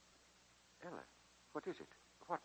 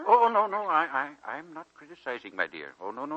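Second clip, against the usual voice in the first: flustered protest; 3 semitones higher, 5 dB louder than usual. Acted. Old man hastily takes back criticism.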